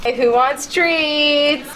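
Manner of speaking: high, slow singsong for the dog; dog-treat voice. Real, not acted. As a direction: coax the dog sweetly. Talking to the dog.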